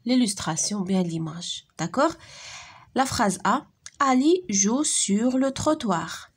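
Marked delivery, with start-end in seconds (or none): 4.0-6.3 slow sentence reading. Shown as a demonstration. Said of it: "Lis les phrases".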